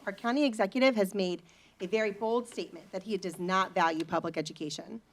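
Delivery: ordinary talk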